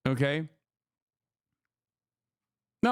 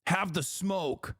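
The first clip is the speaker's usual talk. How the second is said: mocking repeat; 5 dB quieter, much slower than usual. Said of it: "The fuck do you mean".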